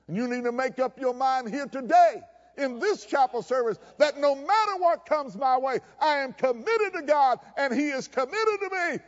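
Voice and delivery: preaching that builds to a high climax; fervent preaching. Real, not acted. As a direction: declare it with rising conviction.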